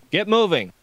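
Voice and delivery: high, loud command; shouted order. A narrator's reading. Guard hurrying a hesitating Josh, shouting. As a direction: shout to hurry someone along.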